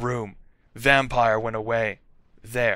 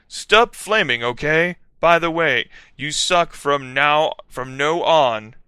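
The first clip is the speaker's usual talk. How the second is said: scolding; 4 semitones higher, 4 dB louder than usual. Acted. Author's note scolding readers.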